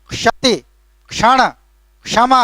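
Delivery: क्षति, क्षण, क्षमा each begun with k plus sh; word by word, a careful "ksh" opening क्षति, क्षण, क्षमा; correct pronunciation. Shown as a demonstration. Teacher modelling proper examples for students, careful k-sh sounds. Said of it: "उसका सही उच्चारण है क और श का मेल".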